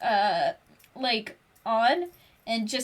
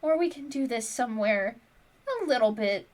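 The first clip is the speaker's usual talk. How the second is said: gently; 6 dB quieter than usual. Acted. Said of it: "gently says".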